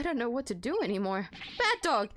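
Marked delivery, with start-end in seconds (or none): 1.6-2.1 scolding. Acted. Scolding the dog in game.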